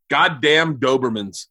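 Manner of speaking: slow, low, grim lament; dad's voice. Retold or imitated. Dad over the dog attack folder, imitated slow, low voice. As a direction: imitate a dad cursing slowly and gravely. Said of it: "I know the other one you're gonna do".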